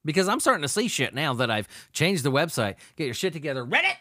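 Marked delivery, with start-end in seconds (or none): 3.7-4.0 calling out. Real, not acted. Calling out Reddit.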